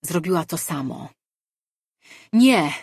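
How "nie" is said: much higher and louder, a thundering voice; booming divine no. Acted. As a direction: boom it like a god in her mind. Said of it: "Głos zahuczał jej w myślach". (grzmiący boski okrzyk)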